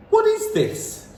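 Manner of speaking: put-on high, loud boy voice; Bruno's demand. A narrator's reading. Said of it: "he said".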